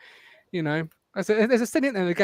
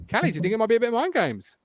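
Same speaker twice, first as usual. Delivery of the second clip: staged question; 5 semitones higher, faster than usual. Acted. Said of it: "wanna try that again?".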